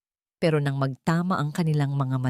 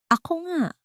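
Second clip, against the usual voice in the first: calm admission; 11 semitones higher than usual. A narrator's reading. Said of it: "mahinahon niyang pag-amin".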